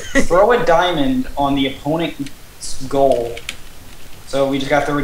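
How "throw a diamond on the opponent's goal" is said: slow, deliberate rule read; reading rules aloud. Real, not acted. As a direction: read it out slowly, word by word. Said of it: "while I read the rules".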